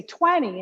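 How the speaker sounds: "twenty" as TWEN-ny, first syllable stretched; reduced "twenty" with the key syllable emphasized; stress on first syllable. Shown as a demonstration. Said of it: "put emphasis on the key syllables".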